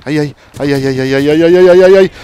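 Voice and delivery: ay building to a loud high cry; rising panicked yelp. Real, not acted. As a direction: panic climbing to a shout. Tiroteo tenso, grito creciente. (ay cada vez más alto y agudo)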